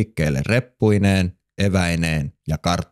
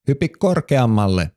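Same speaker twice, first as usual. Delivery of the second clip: excited call; 5 semitones higher than usual. Acted. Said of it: "Elli huudahti innoissaan".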